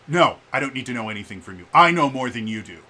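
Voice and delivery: mock-indignant brush-off, loud and punched; dismissive customer. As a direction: imitate a customer curtly shutting down the salesman. Retold dismissive customer brushing off salesman.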